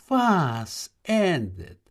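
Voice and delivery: high, drawn-out bewilderment; puzzled young man protesting his innocence; baffled wonder. Acted. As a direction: stretch the questions out high in disbelief. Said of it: "wunderte sich der Junge".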